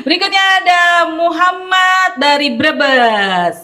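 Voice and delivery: slow, laughing announcement. Real, not acted. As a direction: laugh through the winner's name. Laughing after changing seats.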